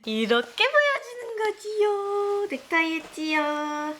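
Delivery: put-on high, slow sing-song baby talk. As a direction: coo it like talking to a toddler. Talks to baby in cute voice.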